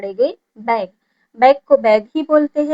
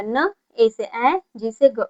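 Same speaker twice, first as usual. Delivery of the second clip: slow sounding out; much slower than usual. Shown as a demonstration. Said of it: "तो ये क्या हो जाएगा?".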